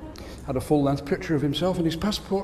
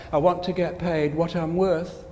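mock self-pity; slower than usual. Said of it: "they say things like".

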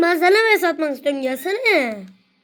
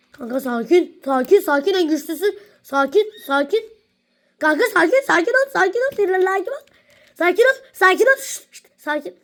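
calming a friend; 2 semitones higher than usual. Real, not acted. Urging friend to calm down.

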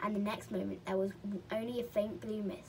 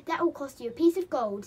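loud, raised-pitch creature voice; little merman; 5 semitones higher, 10 dB louder than usual. A narrator's reading. Merman names his fee, high and loud. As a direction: pipe up with the price.

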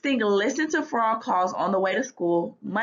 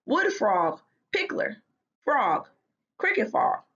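reciting. A narrator's reading. Stink practising frog names around the house, reciting them one by one. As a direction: recite a list, each name set apart. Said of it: "he recited".

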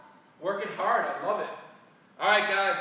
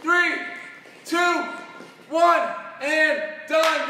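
countdown shout; 4 semitones higher, slower than usual. Real, not acted. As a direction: yell the final countdown. Final countdown yelled over the workout.

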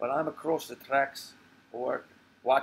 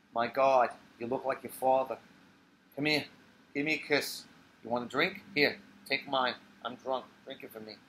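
put-on tipsy old woman. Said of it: "She turns into Sophie".

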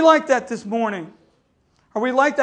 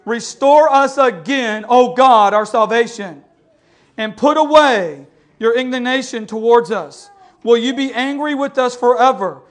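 solemn louder psalm reading; scripture reading; 3 dB louder than usual. Acted. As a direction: read it as a plea to God. Reads psalm aloud.

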